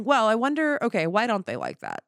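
high, emphatic self-questioning; acted wondering. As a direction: puzzle it out aloud, starting high and loud. Acts out comedian's curious self-questioning.

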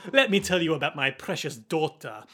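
doting father with put-on French accent; Huey's French accent. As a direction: introduce it grandly in mock French. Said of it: "speaking with a French accent this whole time".

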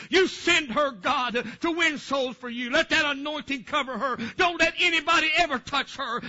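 urgent pleading, pitch lifting on the commands; fervent prayer. Retold or imitated. Pastor asking God to protect the child, fervent prayer. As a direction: pray it out insistently, re-enacting a past prayer. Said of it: "I prayed that".

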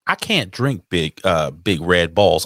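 slow, stumbling Texas drawl; Elizabeth, Texas accent. Acted. Co-host fumbling a viewer's comment, Texas accent. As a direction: lightly put on a Texas woman's accent. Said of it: "do a Texas accent for a female".

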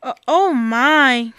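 slow stammering dismay; dismayed cry. Acted. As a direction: gasp it out at the mess. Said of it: "cried Bob".

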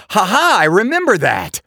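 high, laughing recognition; lightly voiced old acquaintance; amused listener. An imagined Arkansas listener recalling the prank, high and amused.

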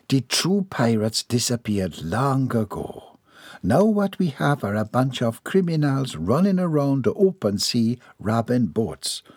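slow, measured Southern lady; calm lady. Acted. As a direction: soothe her with steady reason. Voices lady in story.

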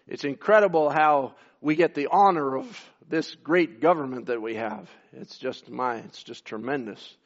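deadpan sarcasm about the government; sarcastic. Acted. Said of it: "Excuse my sarcasm".

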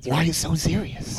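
slow, drawn-out Joker line. Retold or imitated. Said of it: "Heath Ledger Joker".

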